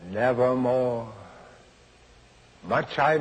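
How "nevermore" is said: the raven. A narrator's reading. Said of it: "Quoth the raven".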